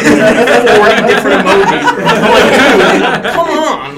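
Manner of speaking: mock exasperation. Mocking a TikTok notification at 4am.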